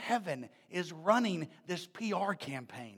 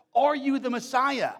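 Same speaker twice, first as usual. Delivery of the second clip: loud, higher, pressing question; demanding question; 4 semitones higher, 5 dB louder than usual. Retold or imitated. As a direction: press him for an answer. Leaders questioning John.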